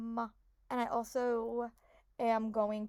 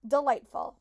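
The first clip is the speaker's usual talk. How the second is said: normal talking voice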